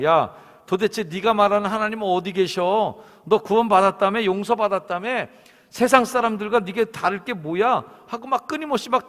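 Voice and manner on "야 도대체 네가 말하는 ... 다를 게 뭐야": loud, higher taunting devil voice; mocking devil. Preacher voicing the devil taunting believers, loud and mocking. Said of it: "원수 마귀가 우리에게 찾아와서 얘기합니다".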